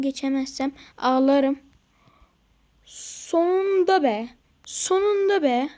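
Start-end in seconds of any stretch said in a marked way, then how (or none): 2.8-5.7 slow, higher, louder drawn-out relief; finally made it, let it out; relieved cheer. Real, not acted. Relief after finally passing. (sonunda geçtim, rahatlamış bir sevinç)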